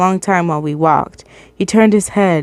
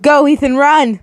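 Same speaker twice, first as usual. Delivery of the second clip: urgent high yell to run; 6 semitones higher than usual. A narrator's reading. Aunt yelling at Ethan to run, urgent yell. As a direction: shout at him to flee. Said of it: "I yelled".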